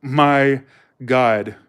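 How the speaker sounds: mock California Valley accent, slow and emphatic; stretched Valley-speak, rising questions; West Coast accent. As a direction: imitate an amazed Californian. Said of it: "They talk like this".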